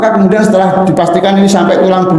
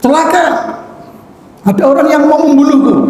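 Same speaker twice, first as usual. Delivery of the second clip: high alarmed cry for help; a retold panicked shout, raised high; 8 semitones higher than usual. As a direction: cry out that someone wants to kill you. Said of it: "Abu Rafi hanya berteriak".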